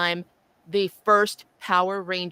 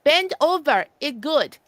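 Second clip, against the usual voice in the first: put-on louder heavy Asian accent; 5 semitones higher, 4 dB louder than usual. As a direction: insist it in a thick Asian accent. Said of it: "like, heavy Asian accent".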